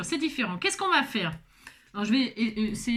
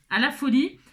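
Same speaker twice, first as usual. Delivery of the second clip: "À la folie" with the "À" leaned on; stress on the A; 2 semitones higher, 3 dB louder than usual. Shown as a demonstration. Teacher showing the label's spelling, stressing the "À". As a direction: hit the "À" in "À la folie". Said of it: "avec un accent sur le A".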